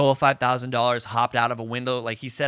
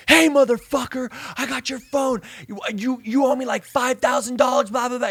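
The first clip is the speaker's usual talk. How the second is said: mimicked angry meth head; 11 semitones higher than usual. Caller ranting at son over the phone, high mock fury. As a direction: bark threats like a tweaked-out caller.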